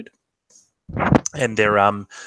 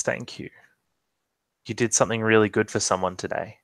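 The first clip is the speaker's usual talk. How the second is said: tender thanks; 4 dB quieter than usual. Acted. Thanking Fargo, hand on arm.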